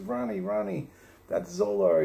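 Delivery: high, excited celebrity voice; Howard Stern impression. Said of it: "He says".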